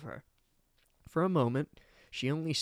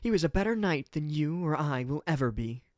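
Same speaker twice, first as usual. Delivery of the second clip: scowling rebuke; 4 semitones higher, 5 dB louder than usual. Acted. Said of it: "scowling up at Felix".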